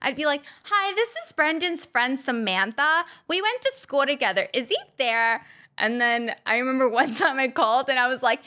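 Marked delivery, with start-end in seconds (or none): 0.6-5.5 slightly higher fake caller; fake friend voice. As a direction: pretend to be a school friend on the phone. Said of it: "pretend to be someone different".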